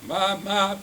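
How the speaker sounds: high storybook goat call; goat bleat. A narrator's reading. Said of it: "said the goat".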